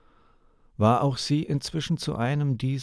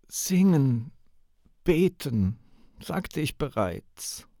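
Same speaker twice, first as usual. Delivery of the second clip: calm and quiet; 7 semitones higher than usual. Acted. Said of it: "Ihre Stimme klang leise, fast gelassen".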